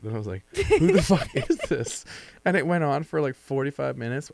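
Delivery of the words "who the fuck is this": retold bafflement. Retold reply to anonymous texts.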